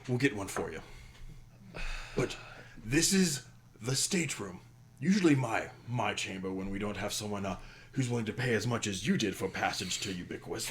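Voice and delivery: captain handing over his own cabin, lightly voiced; apologetic minotaur host. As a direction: apologize for the candle, then boast. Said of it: "looks at you and goes".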